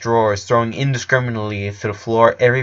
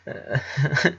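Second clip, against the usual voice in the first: soft laugh; 4 semitones higher, 6 dB quieter than usual. A narrator's reading. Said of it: "He and Clyde shared a laugh".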